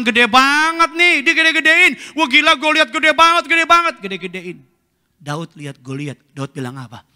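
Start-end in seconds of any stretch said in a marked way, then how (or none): 0.0-3.9 mock awe. Mocking people awed by Goliath.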